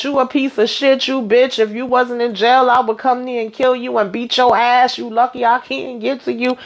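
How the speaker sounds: hammed-up threat; imitated girlfriend raging at her man in jail; retold rage. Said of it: "acting a whole damn fool".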